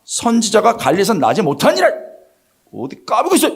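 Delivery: high-pitched, indignant acted retort; mock-angry leaders silencing an objector; squashing put-down. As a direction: slap down a dissenting colleague. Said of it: "확 누른 거예요".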